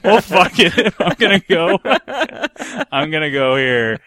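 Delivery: high, loud quote through laughter; laughing resignation. Retold or imitated. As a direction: crack up while acting out giving in. Acts out giving in, laughing.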